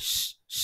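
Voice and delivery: "শ" as a long isolated shush; SH sound. Shown as a demonstration. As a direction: hold "শ" as shh. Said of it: "তাহলে এবার স আসছে".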